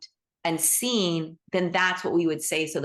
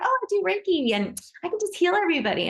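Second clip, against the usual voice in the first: high, fast mock of a smug healer; mocking quote; 11 semitones higher, faster than usual. Mocking an overconfident Reiki healer, high and fast. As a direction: mimic someone bragging about easy healing, high and quick. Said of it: "It's like".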